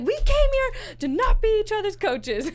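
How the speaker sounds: hammed-up whining protest; whiny protest. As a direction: act out a childish complaint. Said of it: "And I was like".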